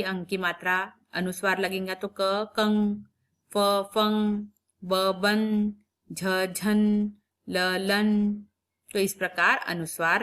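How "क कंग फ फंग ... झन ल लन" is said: झन drawn out very slowly; very slow syllable. Shown as a demonstration. Teacher slowly sounds out a nasal syllable. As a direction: sound out झन at a crawl. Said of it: "उच्चारण क्या होता है देखेंगे".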